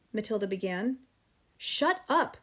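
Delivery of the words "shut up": higher angry shout. A narrator's reading. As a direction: silence the child. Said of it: "the father shouted".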